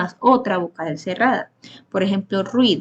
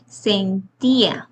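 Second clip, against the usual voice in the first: slow example word; much slower than usual. Shown as a demonstration. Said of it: "La I, como vemos".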